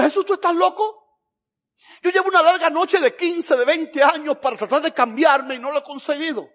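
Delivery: a weary sinner scoffing at Jesus; incredulous sinner. Acted. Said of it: "tú estás diciéndole".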